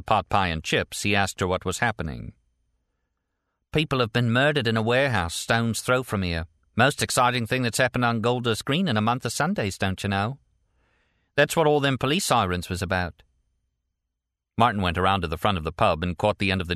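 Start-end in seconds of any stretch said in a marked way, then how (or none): 3.7-10.4 lightly voiced London waitress, pitched up; higher character voice, excited gossip; waitress, gossipy. 11.3-13.2 lightly voiced London waitress, pitched up; higher colloquial character voice; waitress, gossipy. Pub waitress explains the sirens.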